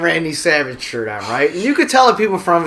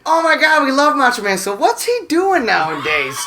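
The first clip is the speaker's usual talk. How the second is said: put-on higher, gushing fan voice of a tipsy girl; imitating a tipsy Macho Man fan; mock excited girl; 6 semitones higher than usual. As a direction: gush like a starstruck fan. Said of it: "she goes".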